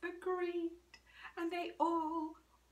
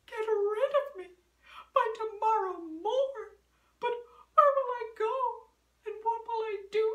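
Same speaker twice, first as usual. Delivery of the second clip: shocked cat; 3 semitones higher, 5 dB louder, faster than usual. Acted. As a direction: fret in dismay.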